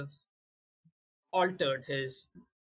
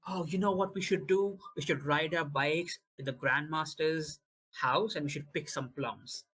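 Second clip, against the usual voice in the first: cheery scheming. Acted. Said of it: "changes his mood to be like".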